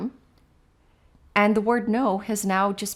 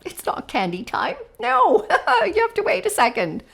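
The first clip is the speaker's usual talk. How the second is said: much higher, louder silly voice with a laugh; playful teacher teasing a child about candy, laughing; joking; 5 dB louder than usual. Shown as a demonstration. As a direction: ham up the no as a joke. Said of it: "in a very joking way".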